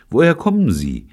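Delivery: high, lively friendly question. A narrator's reading. Michael questioning the strangers over drinks, friendly. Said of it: "fragte Michael freundlich".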